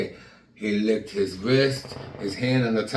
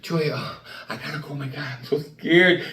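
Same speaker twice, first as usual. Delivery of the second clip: scared pleading. Retold or imitated. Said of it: "And I said".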